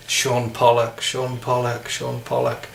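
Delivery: South African accent. Shown as a demonstration. Warming up with a cricketer's name, South African accent. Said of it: "as good as I could do with South African".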